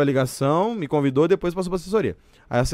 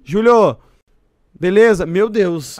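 a light imitation of a singer's voice, louder and higher on his name; imitating the singer; 4 semitones higher, 5 dB louder, much slower than usual. Guest imitates the singer calling him, mild impression. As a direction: lightly mimic the singer's phone greeting. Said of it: "Arrepia a voz?".

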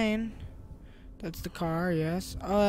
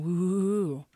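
wooing noise imitating faulty game audio; imitated audio glitch; 3 dB louder than usual. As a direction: imitate wavering audio with woos. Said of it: "The audio's going".

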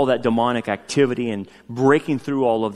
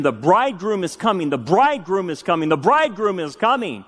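higher-pitched retold chant, repeated; retold dream cry; 5 semitones higher than usual. Husband's recurring dream, retold as a raised cry. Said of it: "and kept yelling".

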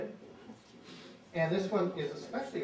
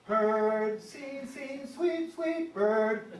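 sung higher, sweet sweet stretched slowly; higher sparrow call; 4 semitones higher, 4 dB louder, much slower than usual. Shown as a demonstration. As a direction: lift the call up high and drag sweet. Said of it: "we go up a little higher".

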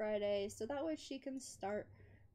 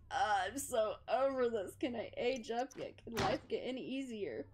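lightly voiced weary whining character; mock fed-up. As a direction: play at being completely over it. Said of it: "look at that walk. She's like".

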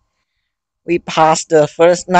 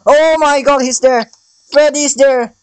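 high frantic begging cries; real fear, high and pleading; terrified; 6 semitones higher than usual. Real, not acted. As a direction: beg and panic as the clock runs out. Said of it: "I'm terrified".

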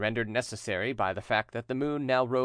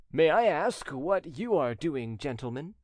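calm and steady; 4 semitones higher than usual. Acted. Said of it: "in a calm and steady voice".

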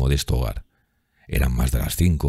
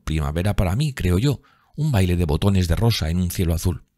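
put-on slightly higher, lilting young woman in love; a lightly voiced dreamy girl, raised pitch; lightly voiced Sibyl; 5 semitones higher than usual. (muchacha enamorada, voz algo más aguda)

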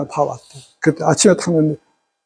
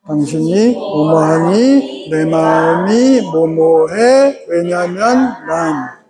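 very slow, even, spelled-out phrasing to a husband; slow calm demo; much slower than usual. Shown as a demonstration. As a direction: stretch every word slowly like a model sentence. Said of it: "시작".

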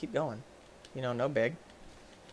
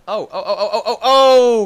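loud laughing oh's, slowed; panicked laughing oh's; 7 semitones higher, 11 dB louder than usual. Real, not acted.

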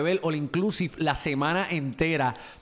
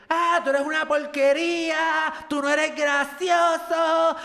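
high, slow mocking of the woman; mock insult; 10 semitones higher, 3 dB louder, slower than usual. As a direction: mimic her drunken insult, pitched up. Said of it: "que ella me decía". (imitando burlón a la mujer que lo insultaba)

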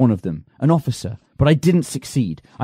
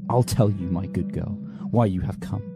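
cold cruelty; 5 semitones lower than usual. Acted. Cruel low confession.

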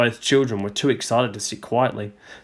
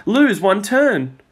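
slow, drawn out and higher; ominous card reading; 8 semitones higher, 3 dB louder, much slower than usual. A narrator's reading. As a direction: read the doom slowly. Peter reads the game card.

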